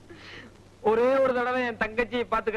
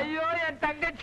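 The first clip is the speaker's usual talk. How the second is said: fake wailing; 4 semitones higher, 3 dB quieter than usual. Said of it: "அழாதப்பா, அழாத".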